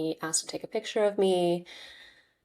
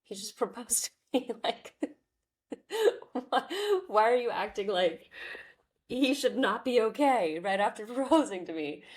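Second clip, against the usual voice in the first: exasperated retort; 5 semitones higher than usual. Retold or imitated. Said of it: "I'm like".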